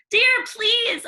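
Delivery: high, sugary stepmother; fake-sweet disapproving question; prim stepmother sniffing at dust. Stepmother voiced.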